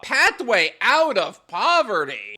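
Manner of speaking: slow, scornful repeat of the quote; incredulous echo. Real, not acted. Host challenging the article's pathway claim, incredulous. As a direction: throw the phrase back in disbelief.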